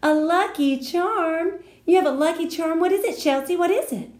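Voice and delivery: high, loud breathless excitement; amazed. A narrator's reading. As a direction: gasp it out, dying to know. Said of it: "mouth came open at that news".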